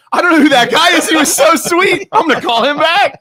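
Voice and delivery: high, sweet mock woman's voice; imitating Elizabeth. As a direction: play the charmed voicemail lady, sweet and high. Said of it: "She's gonna be like".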